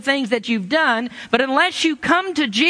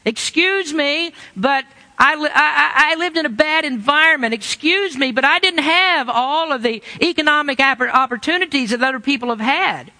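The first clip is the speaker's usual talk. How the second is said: mock excuse-making; 4 semitones higher than usual. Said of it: "you'll say".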